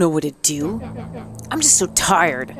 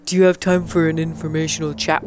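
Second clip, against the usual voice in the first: cheery clipboard canvasser. Acted. Clipboard people greeting Mister Van Horn politely. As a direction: sell them a friendly chat. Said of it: "it's that guy that's always happy".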